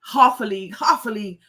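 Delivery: a light British Jamaican lilt on "half", said as hahf; imitating her mom's British Jamaican accent, broad "hahf a league"; reciting like mom in a mild British Jamaican accent. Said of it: "in her British Jamaican accent".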